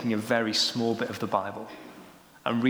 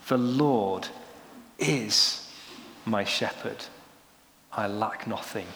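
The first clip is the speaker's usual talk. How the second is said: "is" set apart by pauses on both sides; slow verse, isolate "is", then let the rest drop softer; stress on IS; 3 semitones lower, 4 dB quieter, slower than usual. Shown as a demonstration. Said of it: "emphasize different words".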